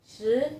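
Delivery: "Shi" with a rising second tone. Shown as a demonstration. Teacher showing learners Mandarin tones, "Shi" in rising tone. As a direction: say "Shi" with the pitch sliding upward. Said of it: "Nada kedua".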